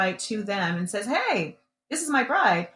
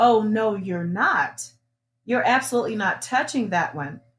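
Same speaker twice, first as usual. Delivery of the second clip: mock sarcastic, mean tone. Retelling a man refusing to let her take the new Corvette: imitating mean sarcasm. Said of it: "the way he said it was kind of, a little mean sarcasm".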